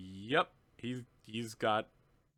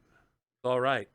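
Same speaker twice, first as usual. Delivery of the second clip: slow soothing; much slower than usual. Acted. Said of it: "And he's just like".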